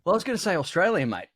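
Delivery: a playful Australian lilt; Australian accent. Shown as a demonstration. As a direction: put on an Aussie accent. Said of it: "what's the next accent".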